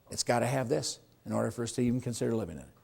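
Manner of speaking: quiet, quick buyer's answer; soft buyer voice. Retold or imitated. Agent voicing what buyers answer, quiet and quick. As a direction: say it softly as the buyer.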